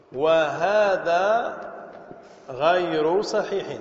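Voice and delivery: very slow, drawn-out verdict; emphatic rejection. Real, not acted. Teacher correcting a common grammar view, slow and emphatic. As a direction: stretch each word out deliberately.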